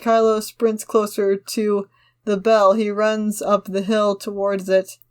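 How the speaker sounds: measured, slightly slow action-line reading; script narration read-aloud. Acted. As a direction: read the scene description steadily to the friend. Reads script action lines.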